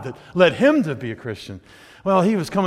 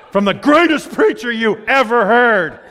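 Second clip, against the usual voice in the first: slow, drawn-out mock awe; sarcastic echo; 5 semitones higher, 5 dB louder, slower than usual. Husband teasing his wife about her favorite preacher, sarcastic echo. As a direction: repeat her praise with teasing doubt. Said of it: "And I think".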